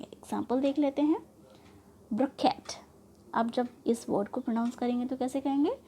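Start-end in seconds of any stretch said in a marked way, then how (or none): 2.1-2.6 ब्रोकेट with KET stressed; light 'ब्रो', weight on 'केट' in ब्रोकेट; stress on suffix. Shown as a demonstration. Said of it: "उसी suffix पर हम ट्रस्ट करेंगे". (ब्रोकेट में 'केट' पर ज़ोर)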